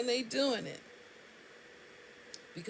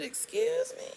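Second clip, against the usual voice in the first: high, shocked "Excuse me?"; outraged disbelief; indignant excuse me; 3 dB louder than usual. Retold or imitated. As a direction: act offended, pitch jumps up. Offended caller to rude pharmacist.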